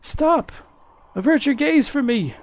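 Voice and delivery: put-on high-pitched pleading old man. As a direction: cry out as an old man begging them to look away. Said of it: "do an old man voice".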